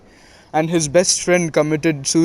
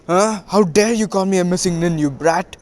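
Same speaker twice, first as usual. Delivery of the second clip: mock outrage, pitched up at the start; retold indignant outburst, not full force; indignant retort; 3 semitones higher than usual. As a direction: play offended, voice jumping up then settling. Retold quarrel, Tsunade takes offence.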